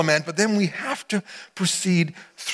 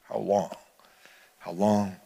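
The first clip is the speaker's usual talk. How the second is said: soft lament; 6 semitones lower, 7 dB quieter than usual. Pretend. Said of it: "You're like".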